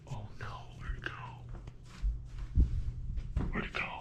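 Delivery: whispered, fast, worried; whispering. Real, not acted. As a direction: breathe it out in a whisper. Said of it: "repeats in whisper".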